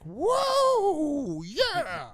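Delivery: high, loud, drawn-out mock amazement; mock awed crowd. Imitating a dazzled debate crowd, high and loud awe. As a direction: gush like a dazzled fan.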